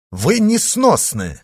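high, drawn-out outrage; exasperated cry, pitched well up; indignant exclamation. A narrator's reading. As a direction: exclaim it in exasperation, stretching the words. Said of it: "воскликнул герцог".

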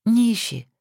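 thoughtful. A narrator's reading. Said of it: "задумчиво сказала Александра".

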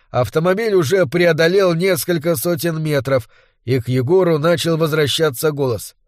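ordinary delivery

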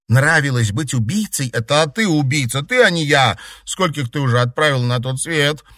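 voiced fight between two rivals, reproachful and bitter; quarrelling girls. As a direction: throw blame at a former friend.

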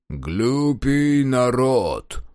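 very slow, haughty pronouncement. Acted. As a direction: look down your nose and draw it out. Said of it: "Надменно глядя на Кудыку, молвил он".

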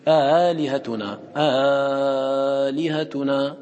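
آلهتنا drawn out slowly at the start; Warsh's lengthened آلهتنا; with badal lengthening. Shown as a demonstration. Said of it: "ورش له فيها بدل".

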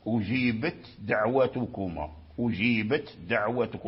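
أجيبت with its ت clearly voiceless and separate before دعوتكما; clear ta before dal. Shown as a demonstration. Teacher showing students the clear ta in أجيبت before دعوتكما. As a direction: sound the ت in أجيبت crisply, then a light د. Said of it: "فأظهر التاء عند".

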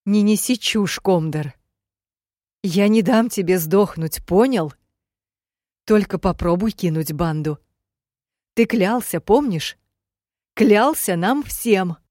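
loud, high, fierce scolding; fierce shout. Acted. Heroine yells at dying Komdor not to give up, fierce shout. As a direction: shout him back to life.

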